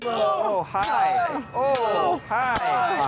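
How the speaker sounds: very high squeaky hello; high cartoony greeting. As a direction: pitch up for the flashback. Acting out flashback.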